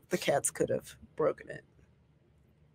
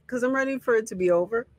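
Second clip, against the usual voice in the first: chewing sticky toffee. Real, not acted. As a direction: mouth full of candy. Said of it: "Why are you chewing on it?".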